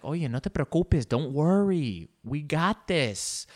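grandma telling her grandson not to worry; reassuring grandma. Retold or imitated. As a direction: settle him down, no panic. Grandma calms panicking grandson.

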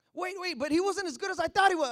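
quick, pleading objection; mock protest. People regretting their chosen king, hurried protest. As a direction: rush in to object. Israel protests its own choice.

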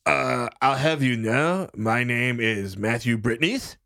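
talking through a head cold; blocked-nose sick voice; stuffy nose. Acted. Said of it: "I have a cold. So I sound like this".

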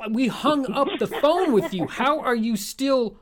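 loud, high alarmed yelling; panicked shout. Acted. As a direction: yell in panic at the intruder. Caller hacked back into call.

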